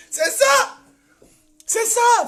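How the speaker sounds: high-pitched, laughing exclamation; laugh, then squeal it out high; laughing derision. Real, not acted. Mocking the critics of the fundraiser, laughing derisively.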